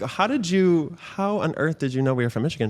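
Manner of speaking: quoting yourself baffled, pitch jumping on the first words; retold astonishment. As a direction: replay being amazed by a stranger's guess. Retelling astonishment at stranger's guess.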